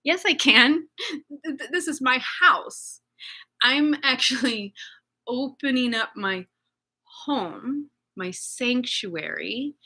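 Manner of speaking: holding her ground through tears; near tears. Real, not acted. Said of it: "defending her home, near tears".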